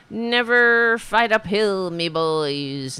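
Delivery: put-on lightly brogued "me boys"; a hint of Irish lilt, slow; mock Irish. Host mocking Trump's Irish-sounding Lee quote.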